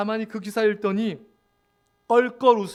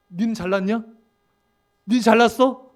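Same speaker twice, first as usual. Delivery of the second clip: mildly heated comeback, louder on the repeat; mock angry retort; 5 dB louder than usual. Believer retorts to an insult, with mock anger. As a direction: act out temper rising in a retort. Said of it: "확 올라오잖아요".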